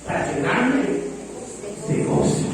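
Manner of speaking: "para llenarme de gozo" said softly, fading to breath on "gozo"; soft reading of Paul. Retold or imitated. Pastor reads Paul's letter to Timothy, softly. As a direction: let "gozo" die away almost unvoiced. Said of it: "Acordándome de tus lágrimas".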